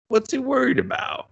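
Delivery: high exasperated shout; shouting disbelief at a dumb plot; mock outrage. Real, not acted. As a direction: yell the question at the show.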